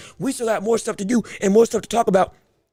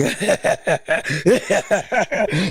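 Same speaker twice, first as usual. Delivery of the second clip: evil laugh; 4 semitones lower than usual. Pretend. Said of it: "my voice can't do the evil laugh".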